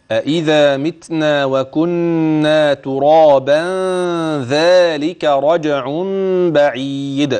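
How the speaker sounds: slow and joined through to رجع بعيد; connected recitation demo. Shown as a demonstration. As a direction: carry the verse on without stopping. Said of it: "أنت عايز توصلي". (وصل الآية ببطء)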